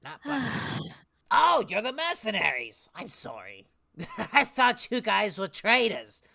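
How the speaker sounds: sudden embarrassed realization, laughing it off; flustered surprise. Acted. Old man realizes his mistake.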